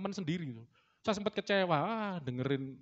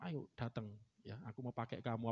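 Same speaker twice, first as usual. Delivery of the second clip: low, soft imitation of a calling voice; gently summon, lightly voicing God; God's calling voice; 5 semitones lower, 9 dB quieter than usual. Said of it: "Terus suara itu". (suara panggilan Tuhan yang rendah dan lembut)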